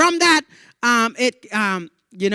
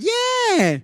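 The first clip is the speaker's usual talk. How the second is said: much higher, squeaky-voiced reply; mock falsetto yeah. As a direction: jump way up into falsetto for it. Replies to uncle's consolation.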